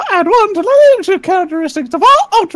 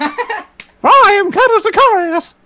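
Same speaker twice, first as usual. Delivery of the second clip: slow, laughing cartoon mouse voice; Mickey cracking up mid-line; giggling, drawn-out Mickey announcement; slower than usual. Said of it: "I love doing that guy as a Mickey".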